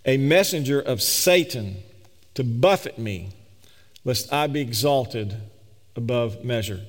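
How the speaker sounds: scripture read slowly, weighing each word; slow, intentional reading. Shown as a demonstration. Pastor reads Paul's words to the congregation, slow and deliberate. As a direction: lay each phrase down deliberately, with pauses. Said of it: "I'm gonna read it slow and intentionally".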